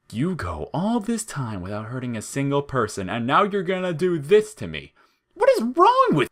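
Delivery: a flower terrified of the oven; panicked shriek. A narrator's reading.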